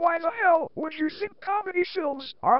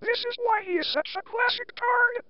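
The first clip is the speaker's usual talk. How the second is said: computerized voice; 4 semitones higher than usual. Shown as a demonstration. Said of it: "using this computerized voice".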